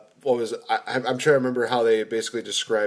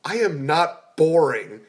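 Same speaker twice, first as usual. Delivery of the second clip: put-on teen Groot; 4 semitones higher, 4 dB louder, slower than usual. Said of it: "It's like".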